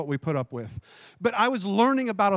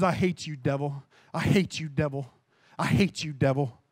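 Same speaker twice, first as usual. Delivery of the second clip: grit it out low and hushed, over and over; angry at the devil; 5 semitones lower than usual. Retold or imitated. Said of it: "I got so angry".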